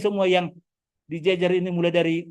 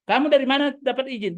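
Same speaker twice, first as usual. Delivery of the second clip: higher-pitched imitation of an angry clan member; mock angry demand; 6 semitones higher than usual. Speaker mimics clan member angrily demanding permission, mock angry. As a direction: retell the scolding with a raised, accusing pitch. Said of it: "Sudah marah-marah, ngamuk-ngamuk".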